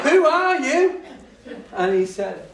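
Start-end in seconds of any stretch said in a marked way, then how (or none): 0.1-1.0 higher and louder, incredulous through a laugh; laughing astonished cry. Retold or imitated. Teacher amazed at the boy, higher and louder. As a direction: throw the question out in disbelief. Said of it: "I lost my rag. I didn't. I just went".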